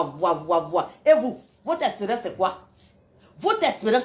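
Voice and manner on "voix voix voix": echoing voix. Acted. Echoing the word voix again.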